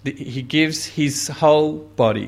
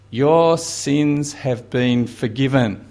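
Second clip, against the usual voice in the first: tender pronouncement; slower than usual. Acted. Jesus speaks to the woman.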